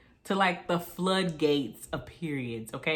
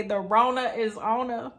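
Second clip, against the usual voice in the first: mama's voice; 5 semitones higher, 3 dB louder than usual. Retold or imitated. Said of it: "as my mama say".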